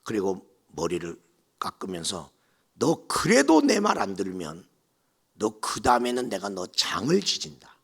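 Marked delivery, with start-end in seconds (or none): 2.7-7.8 louder menacing warning; angry threat. Retold or imitated. Mother-in-law threatening the bride, menacingly. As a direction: threaten her. Threat while shaving hair.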